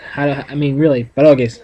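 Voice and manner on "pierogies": "pierogies" in a northeastern Pennsylvania accent, pə-ROH-geez. Shown as a demonstration. Showing a friend his Pennsylvania pierogies. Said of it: "That's how I say it".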